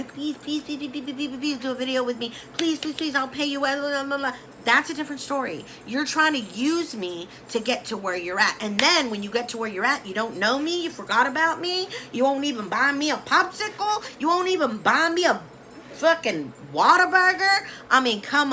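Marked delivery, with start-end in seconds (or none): 0.0-4.3 higher, fast pleading please-please; a hammed-up desperate beggar; mock begging. 10.0-17.7 hammed-up whining; mock hurt complaint. Mocking the forgotten friend.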